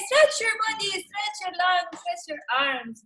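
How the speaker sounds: drawn-out coaching call; slow stretching call. Real, not acted. Yoga teacher guiding the class to stretch. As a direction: stretch the words like the body. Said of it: "coaching stretches".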